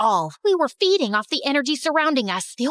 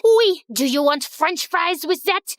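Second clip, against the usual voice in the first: put-on high French-accented "oui", then a jibe; taunting French rival; 3 semitones higher than usual. Genevieve to Erica after throwing a hamburger, high French-accented taunt.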